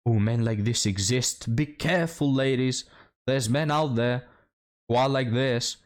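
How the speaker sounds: a hint of a scandalized gossip; mock warning. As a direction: parody a dramatic warning to ladies. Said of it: "it's like".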